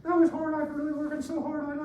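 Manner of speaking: a hint of the gymnast's thin whiny voice; high squeaky voice. Teacher imitating the muscular gymnast with a light squeaky voice. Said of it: "He's like".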